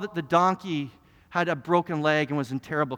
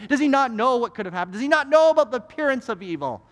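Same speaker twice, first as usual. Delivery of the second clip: telling off; 5 semitones higher than usual. Retold or imitated. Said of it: "I'm gonna tell this kid off".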